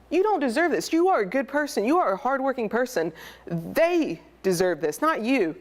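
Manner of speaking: reassuring friend. Retold or imitated. Friend on the phone telling him it's not his fault, reassuring. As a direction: lift him up like a loyal friend insisting.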